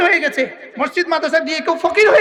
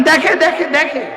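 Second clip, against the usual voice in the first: louder answer; 3 semitones higher, 4 dB louder, slower than usual. Shown as a demonstration. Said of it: "বলেন".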